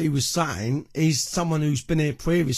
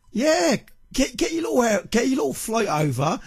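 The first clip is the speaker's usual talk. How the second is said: much higher, sneering taunt; mocking sneer; 7 semitones higher than usual. Real, not acted. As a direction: belittle his little flight. Mocking the rival's threat.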